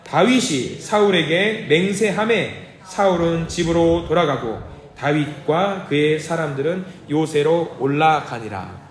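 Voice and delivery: slow, measured group reading; steady liturgical recitation; scripture reading. Acted. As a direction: read the verse slowly in unison. Congregation reads scripture aloud together.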